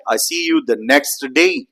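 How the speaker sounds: "next day" with the T fully released; emphasized full sounds. Shown as a demonstration. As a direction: stress each word, keep the T in "next". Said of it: "you'd be emphasizing by saying".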